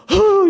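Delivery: high, loud mock crying noise; imitated tearless sob. Pastor crying without tears, imitated loud sob. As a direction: wail out a dry mimicked sob. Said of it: "이러면서 막 울어요".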